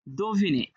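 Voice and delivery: "দোভিনে" opening on a clear do; first syllable of "দোভিনে" ends in o; o-vowel. Shown as a demonstration. Teacher gives students the answer, "দোভিনে" with an o sound. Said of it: "তাহলে সেখানে ওকার হবে".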